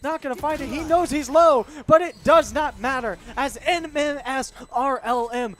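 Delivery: excited live play-by-play; esports caster. Acted. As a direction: call the action, building to a shout.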